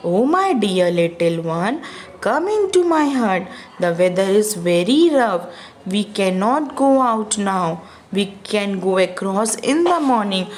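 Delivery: slow, kindly coaxing; polite and gentle. Acted. Ofrio kneeling to comfort the shivering boy, polite and slow. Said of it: "said politely".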